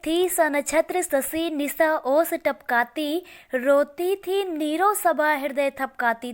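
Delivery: slow, metrical verse reading; poem recitation. Acted. Teacher reciting the night scene of the assembly, measured recitation. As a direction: recite the couplet in measured phrases.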